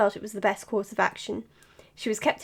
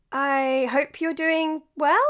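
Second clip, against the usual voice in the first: awkward try at Mina's opener; 4 semitones higher, 3 dB louder, much slower than usual. Pretend. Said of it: "that was pathetic".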